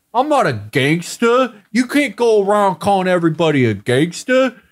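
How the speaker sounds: Stallone. Acted. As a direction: lightly play an affronted movie tough guy. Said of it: "Stallone will be like".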